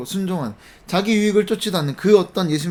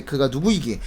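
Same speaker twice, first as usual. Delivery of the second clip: "그가 누구이기에" read in a lowered pitch; lowered quotation; 5 semitones lower, 3 dB quieter than usual. Acted. Preacher quoting the disciples' question, lowered. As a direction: let "그가 누구이기에" sink at the end of the verse. First take of quoted question.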